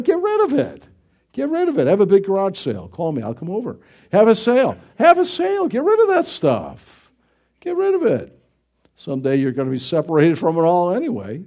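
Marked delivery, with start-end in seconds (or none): 0.0-2.9 higher, insistent preacher's push; preacher pleading with the congregation, insistent; urgent exhortation. Acted. Preacher urging congregation to declutter. 4.1-8.4 higher, insistent preacher's push; preacher pleading with the congregation, insistent; urgent exhortation. Acted. Preacher urging congregation to declutter.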